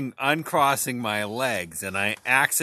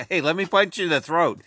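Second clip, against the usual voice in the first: louder, higher mock tough guy; mock threat; 6 semitones higher, 5 dB louder than usual. Retelling their first argument to his cohost, mock threat. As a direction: bark it like a hammed-up bully. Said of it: "It was like".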